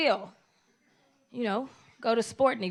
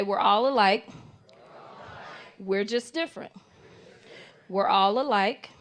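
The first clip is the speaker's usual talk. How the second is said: call and response; 4 semitones lower than usual. Shown as a demonstration. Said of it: "repeat it after me".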